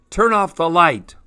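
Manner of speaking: cranky shout into a cave; grouchy voice. A narrator's reading. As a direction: grouse at an intruder, slowing on the challenge. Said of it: "a grouchy voice echoed through the cave".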